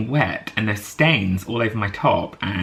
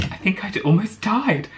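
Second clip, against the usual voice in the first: high, breathless disbelief; stunned thought; 11 semitones higher than usual. Retold or imitated. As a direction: say it like you just realised you nearly died. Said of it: "I was just thinking, like".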